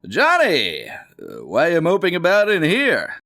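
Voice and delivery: high, loud dad voice; puzzled father. Acted. Johnny's father finds him moping, loud and puzzled.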